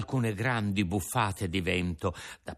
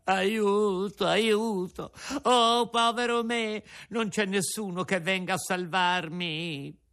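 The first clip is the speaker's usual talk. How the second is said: high wailing plea, near tears; crying for help; 9 semitones higher than usual. A narrator's reading. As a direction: wail for rescue, voice climbing high. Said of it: "cominciò a piangere e a strillare". (supplica piangente, voce acuta)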